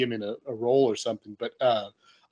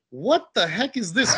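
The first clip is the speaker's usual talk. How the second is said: disapproving mom; 7 semitones higher, slower than usual. Retold or imitated. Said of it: "shaking her head, like".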